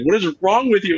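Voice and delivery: high, loud mock scolding; exasperated wife. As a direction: act out a baffled spouse's rebuke. Wife scolding his freak-out, acted.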